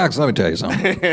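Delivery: quick, lightly voiced Larry; impression of Larry. Co-guest imitates Larry addressing Alex, quick and light. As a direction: rattle it off as a mild take on Larry. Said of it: "he does a much better impression of".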